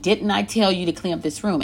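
mildly stern parental scolding; fed-up parent. Acted. Parent on the tenth time of asking, mildly fed up. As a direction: scold lightly, as if asked before. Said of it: "your voice is gonna be a little different".

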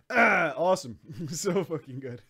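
ordinary delivery

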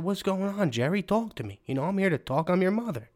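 lightly put-on mom pleading with her son; worried mom.

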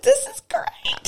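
slow, high unvoiced whisper. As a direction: breathe it out in awe. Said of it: "It's like".

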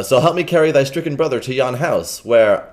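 loud, hurried generous stranger; eager kind gentleman. Acted. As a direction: press him to help. Stranger resumes his line.

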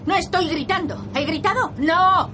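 high, loud yelled denial; shouting denial. Acted. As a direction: shout that you are not shouting. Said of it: "Deja de gritar".

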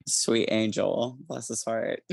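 slow Southern drawl, sugary and pitying; Southern bless his heart. Acted. Pitying a reckless character, in a slow Southern drawl. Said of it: "he also gets a Southern bless his heart".

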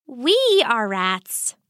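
slow, patient pointing out of the obvious. Acted. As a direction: explain it slowly to a stubborn father. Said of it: "Sakura said patiently".

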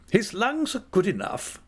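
high, cheery aunt's voice; gay. A narrator's reading. Aunt to Dora about the dog's lungs, gay. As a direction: toss it off gaily, pitched well up. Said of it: "said my aunt gaily".

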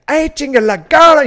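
very high, loud mock outburst; over-the-top excited yell; freaking out. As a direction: act out a movie stoner losing it. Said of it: "he fucking freaks out".

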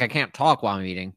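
talking with food squishing in mouth; chewing while talking. Real, not acted. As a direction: mouth full. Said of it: "You hear the saliva, like, just squishing around in your mouth".

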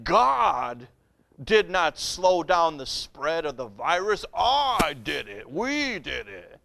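a lightly voiced politician, dropping low and slowing; mocking Cuomo. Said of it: "he was saying".

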